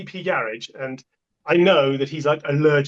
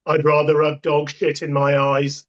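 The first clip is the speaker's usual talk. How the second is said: deadpan; slower than usual. Retold or imitated. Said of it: "with his deadpan humor".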